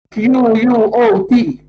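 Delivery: letters spelled out slowly. Shown as a demonstration. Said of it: "you have to say quote".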